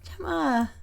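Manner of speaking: loud, high acted wail; hammed-up tearful call; crying out. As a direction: wail the name as if bursting into tears. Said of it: "starts crying. He's like".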